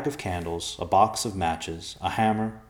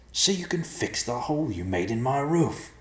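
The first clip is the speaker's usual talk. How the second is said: gravelly, higher-pitched complaint; indignant gravelly creature; 7 semitones higher than usual. Acted. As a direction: rasp it like a grumbling stranger. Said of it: "the gravelly voice said".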